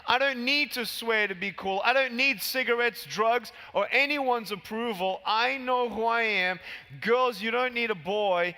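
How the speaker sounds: loud, forceful motivational sermon; impassioned preaching. Acted. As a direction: hammer each line home to the crowd. Motivational speech to the crowd.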